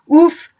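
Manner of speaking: loud exasperated huff to himself; annoyed senator huffing to himself; grumbled huff. Acted. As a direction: blow it out like a fed-up sigh. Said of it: "se grommelait-il à lui-même".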